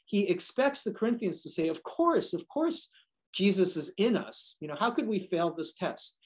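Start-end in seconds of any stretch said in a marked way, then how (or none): 1.7-6.2 a sneer dressed up as certainty; sarcastic. Retold or imitated. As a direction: mimic smug churchgoers, sarcastic. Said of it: "he says this kind of sarcastically".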